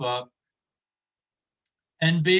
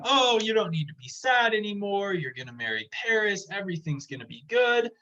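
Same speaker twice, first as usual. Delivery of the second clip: excited father; 5 semitones higher than usual. Retold or imitated. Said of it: "he's all very excited".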